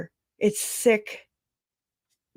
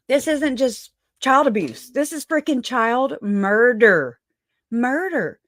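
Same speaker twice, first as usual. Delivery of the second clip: higher-pitched, emphatic outrage; indignant, drawing out the damning words; outraged; 4 semitones higher than usual. Real, not acted. Host condemning the child murders to viewers, outraged.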